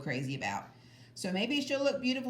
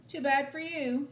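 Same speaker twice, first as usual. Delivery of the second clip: put-on a touch higher, smug girl's taunt; 7 semitones higher, 3 dB louder than usual. A narrator's reading. Sheila taunting the boys from the rocks, lightly smug. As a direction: rub it in. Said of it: "Sheila said".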